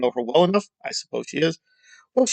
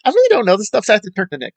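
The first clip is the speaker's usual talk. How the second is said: higher, airy mock of a clueless reviewer; mocking imitation; 5 semitones higher, much faster than usual. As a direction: play it helpless, leaning on her son. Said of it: "So she's like".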